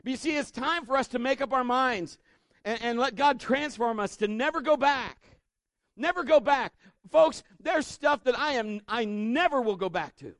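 loud, high preaching. Acted. Preacher urging the congregation never to go back, loud and high. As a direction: drive it home to the congregation.

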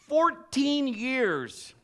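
slow stage whisper; whispered emphasis. Real, not acted. Preacher marveling at the wait, slow whisper. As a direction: breathe it out for effect.

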